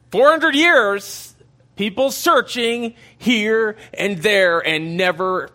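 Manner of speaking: drawn out, high and loud for drama; dramatic emphasis. Acted. Preacher stressing the long silence, slow and high. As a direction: stretch it out with preacher's awe.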